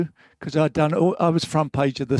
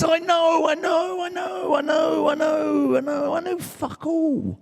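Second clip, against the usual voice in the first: put-on defiant shouted chant of a know-it-all kid; kid shouting; 13 semitones higher than usual. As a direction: belt it out like a cocky kid. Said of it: "my favourite words as a kid was".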